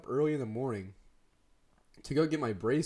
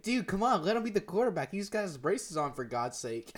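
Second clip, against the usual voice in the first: higher-pitched imitation of a pleading friend; urging plea; 5 semitones higher than usual. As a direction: retell it as an insistent appeal. Retold friend urging the others.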